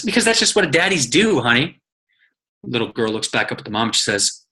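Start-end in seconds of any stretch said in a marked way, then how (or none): 0.0-1.8 mom explaining. Retold or imitated. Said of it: "Mommy looks down at the little girl and says".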